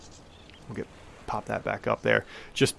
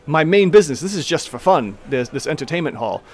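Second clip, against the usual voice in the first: somewhat higher halfling voice, matter of fact; Tamili explaining; 3 semitones higher, 3 dB louder than usual. Acted. Halfling owner explaining the fish business, lightly voiced. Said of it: "gestures to everyone behind her".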